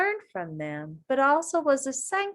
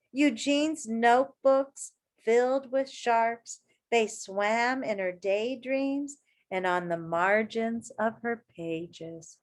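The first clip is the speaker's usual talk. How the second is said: put-on reading to children. A narrator's reading. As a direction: read it to a circle of kids. Reading picture book aloud.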